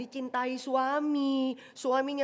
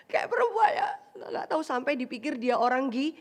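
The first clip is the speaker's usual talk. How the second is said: laughing. Real, not acted. Preacher laughs at women's ways.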